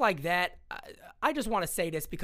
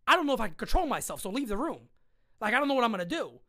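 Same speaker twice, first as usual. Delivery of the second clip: tense warning; 4 semitones higher, 4 dB louder, faster than usual. Retold or imitated. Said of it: "I said".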